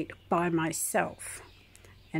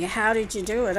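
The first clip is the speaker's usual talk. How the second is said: retold nurse yelling; 4 semitones higher, 4 dB louder than usual. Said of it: "she kept yelling at me".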